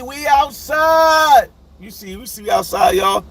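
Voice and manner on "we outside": drawn-out high call, slow and loud; hyped shout. Real, not acted. Greeting viewers in the chat, slow excited shout. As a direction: stretch it out like you're hyping the chat.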